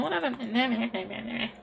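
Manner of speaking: slow, lightly put-on mocking voice; mocking the game. Streamer mocking the word game, slow mild put-on voice. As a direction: drag it out to mock the game. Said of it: "I'm just mocking this game".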